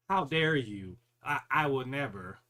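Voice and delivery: imitated affront, emphatic start; mock-offended protest; mock righteous indignation. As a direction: act scandalized, putting it on. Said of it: "have righteous indignation and be like".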